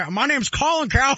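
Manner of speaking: quick, lightly voiced pundit impression; Colin Cowherd impression. Cohost shows his bad pundit impression, lightly voiced. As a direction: rattle off a mild mock Cowherd intro. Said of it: "that's his Cowherd".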